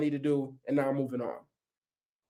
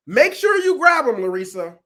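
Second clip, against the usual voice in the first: higher and louder urgent warning; 4 semitones higher, 5 dB louder than usual. Retold or imitated. Speaker warning Larissa about the child, urgent and loud. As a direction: warn her sharply to grab the child. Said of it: "I say".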